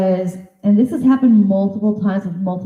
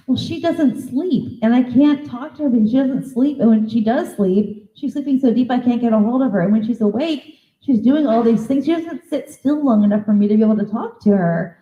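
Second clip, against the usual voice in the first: whiny complaining daughter; 3 semitones higher than usual. Retold or imitated. Daughter complains about restless mother.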